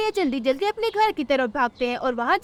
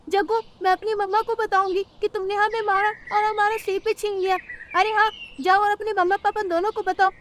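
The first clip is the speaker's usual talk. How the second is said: put-on higher squabbling child voices; cartoon kids quarrelling; 5 semitones higher than usual. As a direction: tease back like a brat. (झगड़ते बच्चों की आवाज़)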